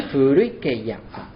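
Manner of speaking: slow Furui ke ya with a final a added; extra syllable. Shown as a demonstration. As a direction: stretch the last ya into ya a. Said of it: "y sumaría una".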